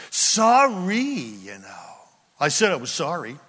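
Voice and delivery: offhand sorry, pitch falling away; flippant, defensive apology; dismissive sorry. Shown as a demonstration. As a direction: shrug off the apology. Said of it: "are you willing to clear yourself".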